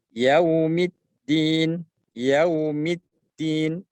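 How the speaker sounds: slow Yaumiddin with rounded lips on yau; rounded waw. Shown as a demonstration. Teacher showing the lip shape for waw. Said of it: "bibir monyong".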